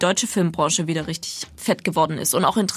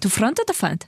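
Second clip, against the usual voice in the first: put-on Russian accent. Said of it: "die spielen das und er sagt".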